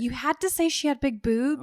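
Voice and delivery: mock exasperation. Mock scolding the tipster.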